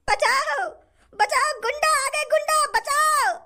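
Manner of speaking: high, slow pleading cries for help; hammed-up terrified victim; mock panic cry. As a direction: shriek for help as if being robbed. Victim screams for help from robber.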